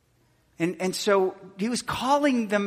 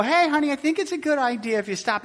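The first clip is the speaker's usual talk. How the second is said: mild sweet coaxing; 8 semitones higher, faster than usual. Retold or imitated. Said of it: "They don't go".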